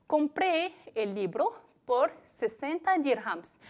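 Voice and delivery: slow example sentence, stress on compré; slow dictation. Shown as a demonstration. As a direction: read it slowly for students, leaning on compré. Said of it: "Pues repito los dos ejemplos".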